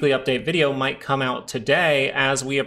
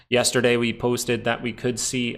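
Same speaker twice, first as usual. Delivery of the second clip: accidental slightly Canadian-sounding delivery; Canadian accent. Real, not acted. Trader recapping yesterday's post, slipping into a slight Canadian accent. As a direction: slip lightly into a Canadian accent. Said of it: "I don't know why I sounded Canadian there".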